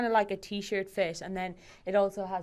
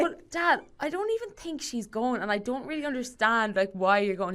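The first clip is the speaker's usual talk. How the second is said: higher-pitched retold protest; protesting to Dad; 5 semitones higher than usual. Daughter talking her dad out of the game, protesting. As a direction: plead lightly with your dad.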